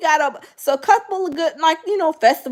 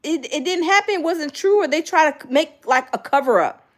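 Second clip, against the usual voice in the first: confused; 5 semitones higher than usual. Retold or imitated. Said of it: "I was like".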